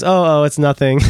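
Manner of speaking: put-on half-hearted try at his accent; Doctor James Tan's accent. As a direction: lightly attempt the teacher's accent. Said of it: "I was gonna try".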